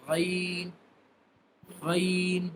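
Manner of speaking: ghain with a gargled gh at the top of the throat. Shown as a demonstration. Teacher showing students ghain from the upper throat. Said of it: "Ghain will be pronounced by the upper end of our throat".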